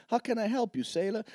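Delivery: lightly voiced flirty woman; sultry woman. Joke, seductive woman voiced.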